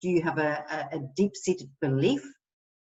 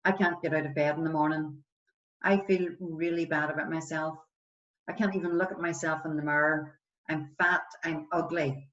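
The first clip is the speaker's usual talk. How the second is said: understated friend confiding they feel bad; struggling friend; 4 dB quieter than usual. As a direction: list your flaws quietly, a little downcast. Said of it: "if they're saying".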